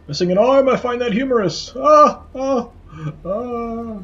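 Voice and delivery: high cackling skull mockery; mocking laugh. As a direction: scoff then cackle. Skull mocks player, laughing.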